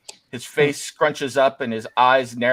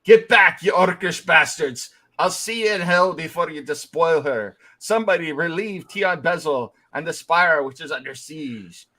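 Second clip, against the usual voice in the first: echoing furious knight; 3 semitones higher than usual. Acted. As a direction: repeat the rage like a stuck echo. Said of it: "stops for a moment and goes".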